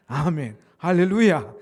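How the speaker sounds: very loud call to the congregation; praise shout. Real, not acted. (힘껏 외치는 찬양의 함성)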